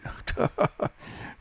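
over-the-top mocking laugh; exaggerated fake laugh. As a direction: laugh as if humoring a heckler. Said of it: "I would laugh a extreme, ridiculous laugh".

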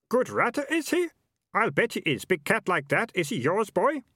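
high, loudish character voice of a haggling man; high-voiced dealer, sounding out the boy; pushy street buyer. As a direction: size up the goods in a high-pitched put-on voice.

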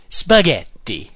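Spaghetti slow and showy with an Italian accent; Italian flair. Shown as a demonstration. Teacher hamming up Italian flair on Spaghetti. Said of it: "with the Italian flair".

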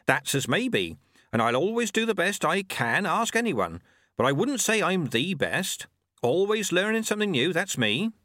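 put-on high, sly old witch voice; old witch hedging craftily with the stranger; Nanny Ogg. A narrator's reading. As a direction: hedge modestly but shrewdly. Ogg speaks.

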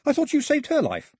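very high-pitched, bewildered youngster; puzzled boy. Acted. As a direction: squeak the question out in puzzlement. Puzzled boy questions his friend.

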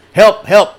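high, loud cry for help; desperate high yell; calling for help. A narrator's reading. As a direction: shout up the cliff for help. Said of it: "he said".

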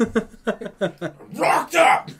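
high, loud hollering; playful full-volume yell; mock excited shout. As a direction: holler it like an over-eager joke announcement. Mock excited exchange, speakers alternate.

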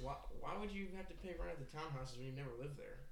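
questioning like an investigator; reporter voice. Acted. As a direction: play a probing interviewer. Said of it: "why are you talking like you're stupid".

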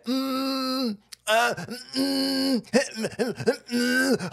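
high whimpering "mm" stammer; mock hemming noises. Mocking how Trump hesitated over the question, whimpering hems. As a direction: imitate a high, whiny hesitation. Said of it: "he said".

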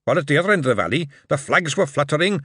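put-on old dwarf father recounting Coombe Valley to his son; old dwarf veteran. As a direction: tell it like an old soldier by the fire. Old dwarf retells the battle.

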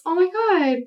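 high, gushing chatter; chirpy flirty questions; bubbly small talk. Retold or imitated. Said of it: "my pilot speak is".

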